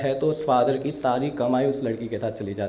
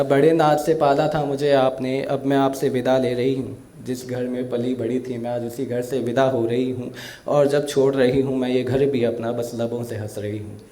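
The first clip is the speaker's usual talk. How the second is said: emotional recital of a daughter's farewell poem. Acted. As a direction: recite it with feeling, like a stage poet. (भावुक कविता पाठ)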